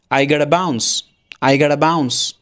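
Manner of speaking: casual American accent, tapped "gotta"; American-style casual. Shown as a demonstration. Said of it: "smartly বা আমেরিকানভাবে বলা যেতে পারে". (American ভঙ্গিতে smartly)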